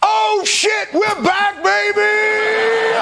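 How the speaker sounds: excited shout. Real, not acted. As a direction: yell it like your team just scored. Host cheering debate moment.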